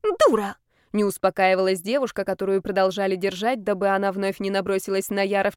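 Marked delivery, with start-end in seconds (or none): 0.0-0.6 much higher, louder shriek; furious insult. A narrator's reading. The restrained girl still screaming at Yar, high furious shriek. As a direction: spit the insult out.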